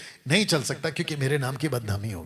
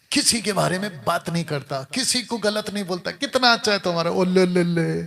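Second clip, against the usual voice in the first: imitating callers; 4 semitones higher, 3 dB louder than usual. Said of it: "कई लोगों ने मेरे को कॉल किया".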